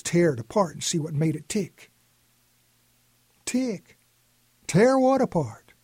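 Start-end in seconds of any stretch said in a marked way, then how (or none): 3.4-5.7 much higher, startled questions; suddenly alarmed grandpa; alarmed surprise. A narrator's reading. Grandpa hearing the watch was dropped, startled high questions.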